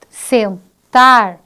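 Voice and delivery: teacher naming the rhyming word, loud; loud example word. Shown as a demonstration.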